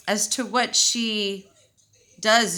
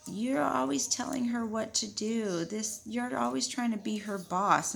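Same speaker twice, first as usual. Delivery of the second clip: higher, softer mock-parent reproach; imitated scolding mom; 3 semitones higher, 4 dB quieter than usual. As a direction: lightly mimic a mother's complaint. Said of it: "her mom would always tell me".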